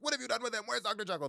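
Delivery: hint of a frantic rescuer; alarmed demand. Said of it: "They're like".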